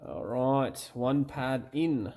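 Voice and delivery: playfully faked British accent; corny British accent. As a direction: put on a hammy British accent. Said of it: "that's my corny British accent".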